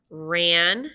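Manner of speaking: Ran-dom with a clear break between the syllables; split into syllables. Shown as a demonstration. Teacher chunking the word for the class, separate syllables. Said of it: "sounding out syllables".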